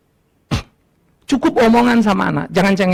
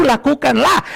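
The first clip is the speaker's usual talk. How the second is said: mock shouted prayer; 3 semitones higher, slower than usual. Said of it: "Apa yang baik bagiku".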